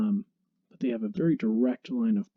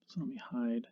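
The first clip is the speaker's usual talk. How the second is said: whispering; 10 dB quieter than usual. Real, not acted. Aside while working the software.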